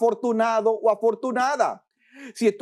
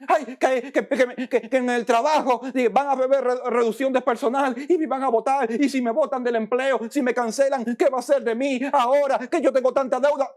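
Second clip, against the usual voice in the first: higher, fast, anxious rambling; mock a stammering man afraid of losing his job; preacher mimicking a worker panicking over debt; fretting worker; 4 semitones higher, faster than usual.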